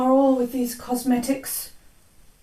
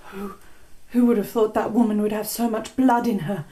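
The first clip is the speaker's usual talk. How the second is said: a hint of a sleepwalking queen. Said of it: "speak in a strange voice".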